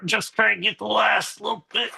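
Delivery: straining while pulling the tent; words pushed out with effort; effort grunt. Real, not acted. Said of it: "I'm just grunting over here".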